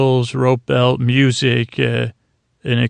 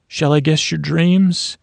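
mock guru; 4 semitones higher than usual. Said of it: "a guru".

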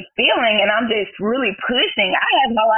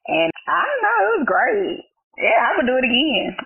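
tearful; 8 semitones higher than usual. Real, not acted. Tearful recalling her daughter's birth.

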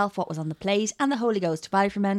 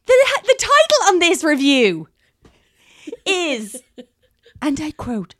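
laughing; 8 semitones higher, 9 dB louder, slower than usual. Real, not acted. Laughing while announcing a hostile review.

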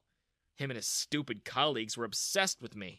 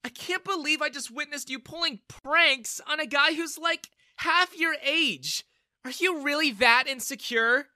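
high, loud contemptuous rebuke; angry scolding; 12 semitones higher, 7 dB louder than usual. Acted. Daughter scolds father for the prank, angry. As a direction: shame him, loud and high.

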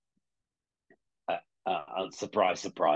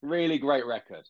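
mock pretentious record buff. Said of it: "Pretentious, John".

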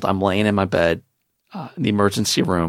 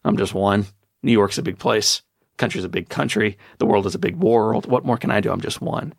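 helpless victim. Retold or imitated. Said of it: "the final question is".

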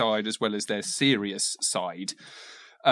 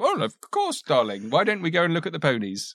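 high cooing parent voice; doting parent; 4 semitones higher than usual. Retold or imitated. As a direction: coo it like a doting mum. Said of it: "the parent will go".

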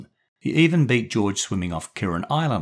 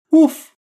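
sharp high imitated woof; dog bark; 12 dB louder than usual. Timmy the dog butting into the Zoom call, loud bark. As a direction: bark like a small eager dog.

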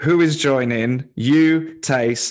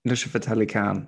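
light attempt at a South Asian accent, lower and softer; copied South Asian accent; 4 semitones lower, 5 dB quieter than usual. Host copying guest for approval, slight South Asian accent. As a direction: echo the name with a hint of South Asian accent. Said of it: "say it with the accent".

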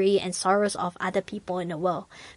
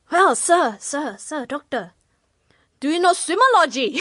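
put-on hurried old man; 7 semitones higher than usual. Old man voiced, ship sinking.

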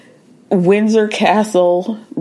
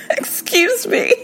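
mock offended; 5 semitones higher than usual. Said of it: "And Parvati's like".

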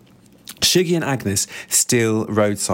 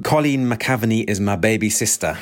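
lightly attempted Scottish accent. The speaker revealing his sister, in a tentative Scottish accent. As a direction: have a modest go at a Scottish accent. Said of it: "in a, in a Scottish accent, I'm sure, which I'm not very good at".

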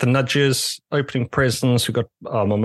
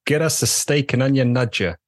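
rough go at Scouse; attempted Scouse accent; 2 semitones higher than usual. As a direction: quote a Liverpudlian order in shaky Scouse. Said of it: "They're not Australian. They're Scouse".

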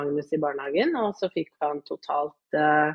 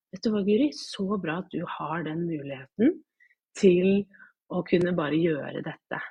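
praising staff voice. Retold or imitated. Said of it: "de bare".

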